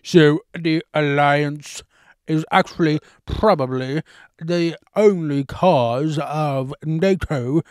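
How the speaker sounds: slow relaxed-lip drawl; mimicking the professor. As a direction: stretch every word lazily.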